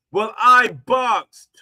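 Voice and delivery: slow, loud mocking boast; mock boastful quote. Mocking the Joker's boxing brag, slow and loud. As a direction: sneer out the brag slowly.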